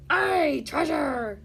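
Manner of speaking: crew shout. Acted. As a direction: cheer it as a crowd. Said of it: "the others shouted".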